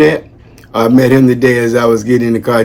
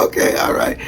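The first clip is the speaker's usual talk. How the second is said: quiet retold reply; 7 dB quieter than usual. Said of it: "He said".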